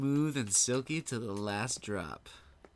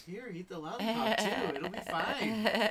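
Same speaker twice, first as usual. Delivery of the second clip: raised, insistent mock reassurance; pushy cupcake character; 6 semitones higher, 4 dB louder than usual. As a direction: push the treat on them, loudly. Acting out menacing cupcake offering lollipop.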